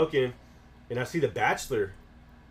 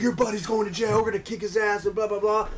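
threatening bouncer; 9 semitones higher than usual. Retold or imitated. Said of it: "He's like".

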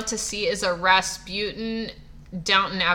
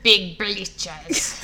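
attempted Russian accent. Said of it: "imagine it also in a Russian accent".

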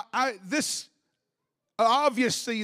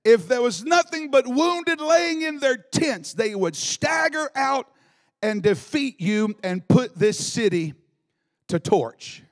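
higher, building to a cry on stagger; rising preacher fervor; 4 semitones higher than usual. Acted. Preacher reading another translation, rising to a cry. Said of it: "Another one said".

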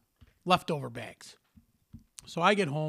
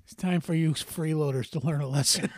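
shouted through a laugh, gloating; laughing retort. Retold or imitated. The father gloating over his leftover bag prank, laughing. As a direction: crow it like a kid caught pranking. Father's gleeful reply retold.

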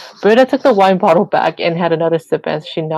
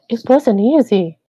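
fond; 5 semitones higher than usual. A narrator's reading. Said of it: "Shirley said almost fondly".

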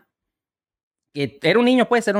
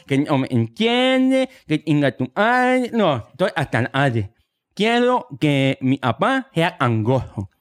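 mock nasal kid, slow; slower than usual. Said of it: "niño gangoso".

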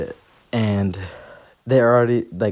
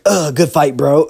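groggy beaten guy; 4 semitones higher, 7 dB louder than usual. Retold or imitated. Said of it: "He's like".

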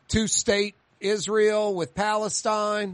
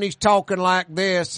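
put-on country accent; 2 semitones higher than usual. Telling how a kid from college changed, mock country accent. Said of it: "He starts talking like a country guy".

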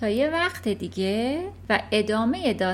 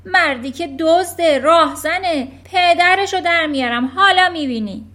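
much louder, higher raging rant; shouting; 5 semitones higher, 9 dB louder than usual. Acted. Headmistress ranting about the car dealer, shouting. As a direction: rage about the cheating father. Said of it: "ترانچبول فریاد زد".

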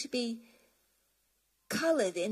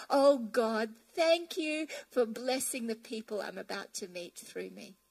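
mirror declaration. Pretend. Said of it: "Look in the mirror and go".

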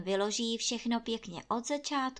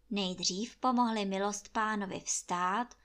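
usual speaking voice

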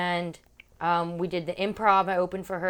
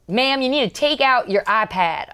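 imitated security officer; 5 semitones higher, 10 dB louder than usual. Security woman repeats her demand.

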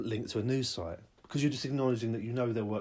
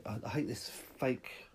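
whisper; 5 dB quieter, slower than usual. Acted. Unvoiced aside.

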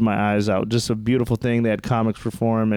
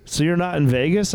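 higher, confused questioning tone; dumb cop voice; 6 semitones higher than usual. Retold or imitated. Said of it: "And he goes".

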